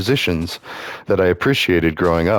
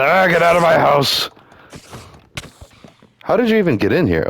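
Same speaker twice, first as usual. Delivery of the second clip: mock panic; 11 semitones higher than usual. Startled by a mob in house.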